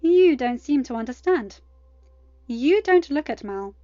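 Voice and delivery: furious mother goddess on the phone; menacing threat. A narrator's reading. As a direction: threaten her with divine menace.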